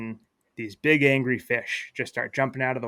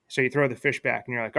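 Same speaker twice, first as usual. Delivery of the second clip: ordinary talk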